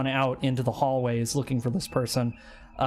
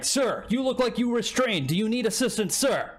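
higher, formal robotic courtesy; polite robot guard; 8 semitones higher than usual. Acted. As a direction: stiff service robot voice. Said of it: "the guys are like".

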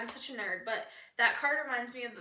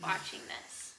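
mock warning; 7 dB quieter, slower than usual. Warning young viewers.

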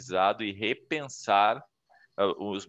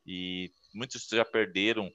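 a hint of a heartfelt toast, softer; lightly voiced grateful host; family toast; 3 dB quieter than usual. Shown as a demonstration. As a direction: give a touched little speech at the family barbecue. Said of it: "Faz um discurso ali".

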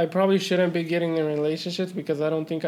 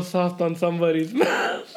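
laughing. Real, not acted. Laughing repeat of quote.

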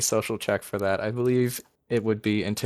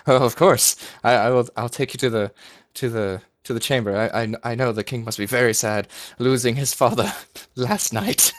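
flustered clerk; 4 dB louder than usual. Acted.

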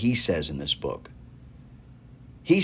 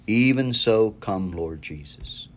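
hushed reverent prayer; slower than usual. Acted. Closing quoted prayer.

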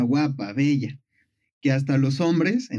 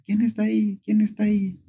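echoing repeat; 5 semitones higher than usual. Retold or imitated. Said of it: "Ninfa repite otra vez".

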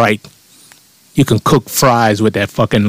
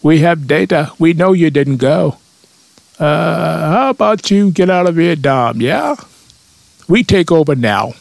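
higher, hammed-up fake Russian accent; Soviet accent impersonation; 7 semitones higher than usual. Soviets blackmailing America over photographs, mock Russian accent. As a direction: do a cartoon Russian, pitched up. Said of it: "That's my Soviet accent impersonation".

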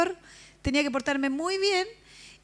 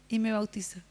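awed whisper; 3 semitones lower than usual. Acted. Preacher telling the congregation of her baptism, in an awed whisper. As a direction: whisper it, hushed with awe.

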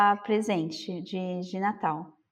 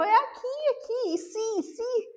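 insistent protest; 12 semitones higher than usual. Retold or imitated. Tapping counter, insisting.

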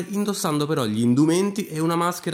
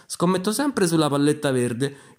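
lightly voiced young bettor, pitched up; slightly heightened gambler's challenge; challenging bettor; 3 semitones higher than usual. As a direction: place the bet in a raised voice. Hans raises the bet.

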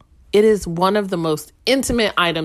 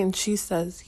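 normal talking voice

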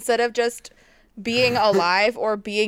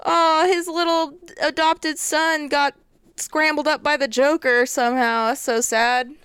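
mock bewilderment; 5 semitones higher than usual. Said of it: "I think people would be like".

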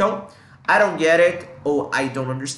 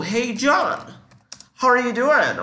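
higher-pitched, upbeat hello to a friend; cheery greeting; 8 semitones higher, 4 dB louder, slower than usual. Acted. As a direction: greet a pal, voice jumping up. (cumprimento animado a um amigo)

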